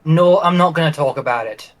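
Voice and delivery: lightly voiced young character; a hint of a youthful role voice; young Grendel. Shown as a demonstration. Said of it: "What's something that I can, like, say as Grendel".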